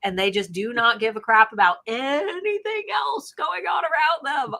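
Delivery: venting about people who don't care; exasperated rant. Real, not acted. Venting about selfish holiday shoppers, real exasperated shout.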